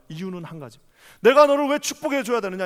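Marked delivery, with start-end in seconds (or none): 1.2-2.7 God's challenge. Acted.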